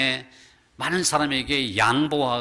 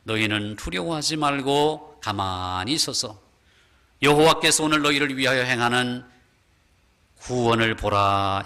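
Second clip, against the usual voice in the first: voice of God; 2 semitones lower than usual. Acted. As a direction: command Israel to stand still and watch. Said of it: "하나님은 이렇게 말씀하시죠". (느리고 엄숙한 하나님의 음성)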